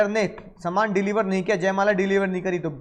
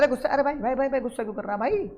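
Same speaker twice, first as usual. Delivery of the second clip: mock judge calming an angry man, high-pitched; soothing judge; 4 semitones higher, 3 dB quieter, faster than usual. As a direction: play the judge hushing him down. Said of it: "तो जज साहब कह रहे". (जज की हल्की नकल, ऊँची आवाज़ में शांत कराते हुए)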